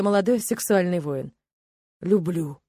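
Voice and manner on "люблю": hoarse. A narrator's reading. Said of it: "хриплым голосом ответил Тирк".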